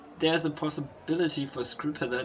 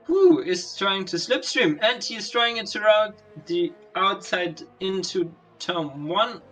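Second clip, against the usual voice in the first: excited; 4 semitones higher, 4 dB louder than usual. Real, not acted. Overtake unfolding live.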